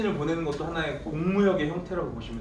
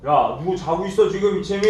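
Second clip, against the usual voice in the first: louder, sharp call-out to a dozing student; harsh scolding; 6 dB louder than usual. Shown as a demonstration. Teacher scolding a dozing student as the hard-line policy, louder harsh call. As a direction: snap at the sleeper like a strict teacher. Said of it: "이렇게 막 강하게 나가는 거야".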